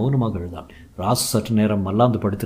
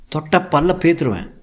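threat; 7 semitones higher than usual. Acted. Bride threatening rival.

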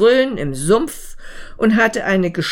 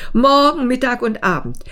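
higher, quick, indignant ant; scornful quoting; 7 semitones higher than usual. Acted. Ant reporting the mayfly's claim to the beetle, scornfully.

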